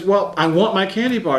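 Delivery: put-on girl telling the rescuers why her hand is stuck, in an excited child voice; imitating a little girl. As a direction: play the stuck kid blurting out her excuse. Girl refuses to drop candy.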